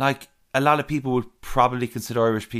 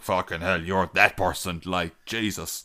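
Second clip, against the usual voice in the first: low, softer aside; muttered disbelief; 6 semitones lower, 6 dB quieter than usual. Retold or imitated. Reacting to thickly accented people, low muttered disbelief. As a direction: say it under your breath, low and slowing. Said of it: "I'm like".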